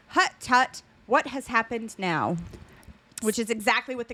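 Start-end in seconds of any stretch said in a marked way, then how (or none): 0.1-2.4 lightly voiced old Southern grandmother, scolding; a mild hint of an old North Carolina grandmother; grandmother's Southern accent. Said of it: "replied in the grandmother's accent".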